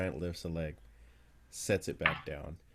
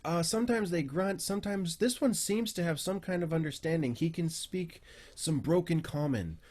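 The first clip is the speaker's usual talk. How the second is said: higher, halting, eager bird-man voice; enthusiastic Aarakocra researcher; 8 semitones higher than usual. Acted. Dirk describes his smart stone giant, high and eager. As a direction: marvel at your clever pupil in a raised voice.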